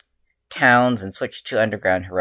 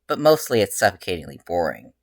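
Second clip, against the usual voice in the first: exclaimed; 4 dB louder than usual. Acted. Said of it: "Izuku exclaimed".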